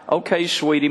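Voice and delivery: a hint of a doting old man; mild old-man sweetness. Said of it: "weird old man statement".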